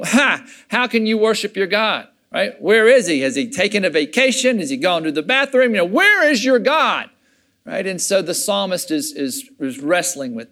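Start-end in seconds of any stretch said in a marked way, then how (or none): 0.0-2.1 mocking. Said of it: "some Babylonians are saying". 2.6-7.1 mocking. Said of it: "some Babylonians are saying".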